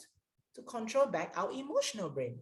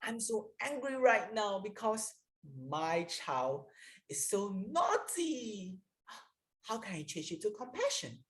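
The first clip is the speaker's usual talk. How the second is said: frustrated parent; 3 semitones higher than usual. Shown as a demonstration. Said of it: "Let me give you an example".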